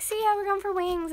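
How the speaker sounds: high, loud mock-excited voice; loud, high-pitched teasing quote; excited friend imitation. Retelling friend's excited phone remark.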